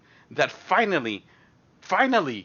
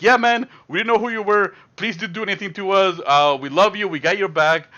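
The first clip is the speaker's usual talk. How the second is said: mock pleading homies; 4 semitones higher, 3 dB louder than usual.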